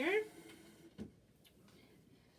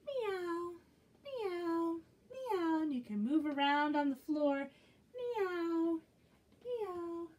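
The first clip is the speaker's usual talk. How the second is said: higher meow, meow; kitty meows; 6 semitones higher, slower than usual. Acted. Teacher meowing as a kitty for children. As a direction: mew like a little cat. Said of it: "How about a kitty cat".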